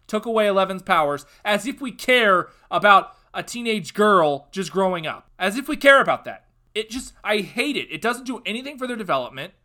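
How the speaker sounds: furious fan scolding Hollywood; angry outburst. Real, not acted. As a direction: yell at Hollywood to stop. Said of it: "I apologize for that outburst".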